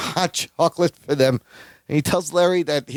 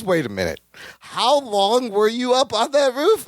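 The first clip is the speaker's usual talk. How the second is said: mock sudden suspicion; 5 semitones higher than usual. Imitating Larry suddenly questioning his cousin, mock suspicion. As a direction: draw out the dawning realization, lightly acted. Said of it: "suddenly Larry snaps".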